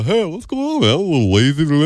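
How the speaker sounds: a hint of a sleepy hot dog; lazy hot dog voice. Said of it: "Oh, hot dog is a".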